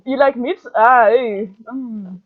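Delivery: gruff vendor, pushed up and loud, tailing into a grunt; hammed-up gruff accented vendor; gruff guy.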